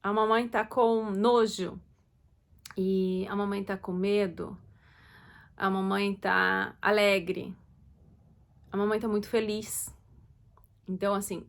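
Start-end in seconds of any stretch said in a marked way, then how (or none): 0.0-1.8 slow, with disgust on "nojo"; showing disgust. Shown as a demonstration. Mother showing her child disgust, slowly and clearly. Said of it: "você tem que demonstrar". 5.6-9.9 slow, gently pleased; showing happiness. Shown as a demonstration. Mother showing her child she is happy, slow and bright. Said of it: "você tem que demonstrar".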